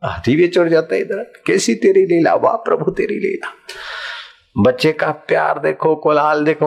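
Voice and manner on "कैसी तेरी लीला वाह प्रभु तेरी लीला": whispered wonder at God's play; awed praise. Acted. Devotee marvelling at the Lord's play, a whispered wah. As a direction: breathe it out in awe.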